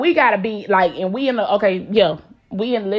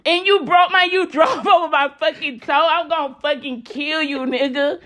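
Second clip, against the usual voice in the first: mock rage with laughter; 5 semitones higher than usual. Mock rage over run-over toe.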